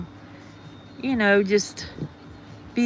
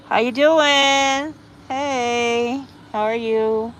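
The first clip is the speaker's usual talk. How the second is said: excited greeting; 5 semitones higher, 4 dB louder, much slower than usual. Real, not acted. Greeting a viewer in live chat.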